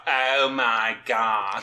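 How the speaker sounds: slow nasal drawl, lightly done; drawn-out Janice from Friends impression. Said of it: "sound like Janice from Friends".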